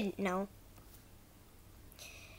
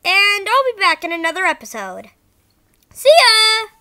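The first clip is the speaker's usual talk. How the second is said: bad acting; 5 dB louder than usual. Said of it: "Sorry if the voice acting was bad".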